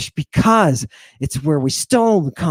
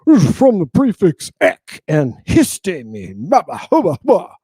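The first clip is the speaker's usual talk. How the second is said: mocking preacher. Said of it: "some preacher will stand up and say".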